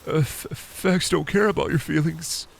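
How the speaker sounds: lightly voiced pundit, slow and soft; a hint of the smug pundit catchphrase; Ben Shapiro impression. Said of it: "Ren Shapiro".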